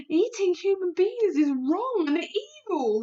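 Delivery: slow, firm moral statement; BFG, solemn. A narrator's reading. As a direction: declare it gravely.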